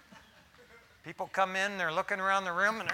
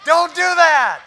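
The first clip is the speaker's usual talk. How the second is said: laughing it out, louder and higher; 7 semitones higher, 13 dB louder than usual. Real, not acted. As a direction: blurt it through real laughter. Laughs after joking.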